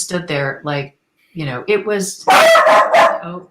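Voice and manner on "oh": high, loud startled oh; sudden oh. Real, not acted. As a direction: jump at the interruption. Spots her dog barking.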